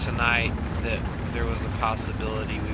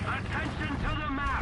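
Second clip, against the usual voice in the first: radio announcer. Acted. Game announcer voice.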